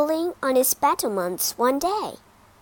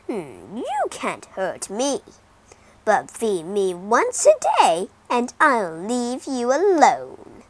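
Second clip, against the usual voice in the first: dragon voice; 5 dB louder than usual. Acted. Dragon speaks to king.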